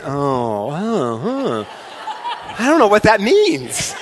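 laughing, bemused oh-huh; mock baffled congregation. Pastor mimics puzzled early service, laughing and bemused. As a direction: play the confused crowd through a laugh. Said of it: "nine o'clock service did the same thing".

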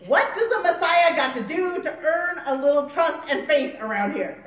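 loud, put-upon complaint; hammed-up griping at hopeless followers; loudly fed up, playing it for laughs; mock exasperation. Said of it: "like I would say".

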